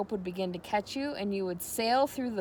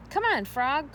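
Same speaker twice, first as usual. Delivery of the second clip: put-on boy's call; 6 semitones higher, 3 dB louder, slower than usual. A narrator's reading. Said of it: "cried Avery".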